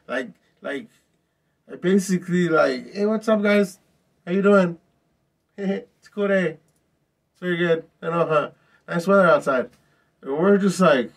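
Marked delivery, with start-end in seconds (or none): 2.9-9.7 imitating her breezy fake friendliness, pitched higher; mock-casual chirpy greeting, a little higher; fake cheerful lady. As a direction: play it sunny like nothing happened. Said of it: "she walks in like nothing happened".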